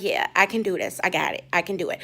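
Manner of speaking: low, soft self-reassurance; low soft pep talk to oneself; calming self-talk. Retold or imitated. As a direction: quietly talk yourself down. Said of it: "took a deep breath".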